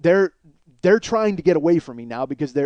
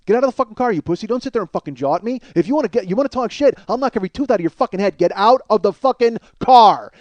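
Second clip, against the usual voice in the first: angry yelling; 6 semitones higher, 6 dB louder, faster than usual. Retold or imitated. Man challenges passenger to a fight in traffic, yelling. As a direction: yell him out of the car. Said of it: "I'm yelling at him".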